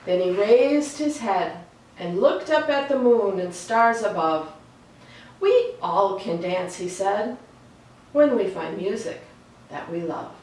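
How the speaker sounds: put-on unhurried storybook reading for kids; picture book reading. A narrator's reading. Reading a book aloud to young listeners, gentle storytelling voice. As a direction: read it like bedtime story time.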